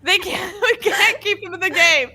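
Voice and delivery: loud, high-pitched hammed-up outburst; playfully over-the-top exasperation; mock scolding. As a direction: lay down the law, loudly. Acted outburst banishing Liv's girlfriends.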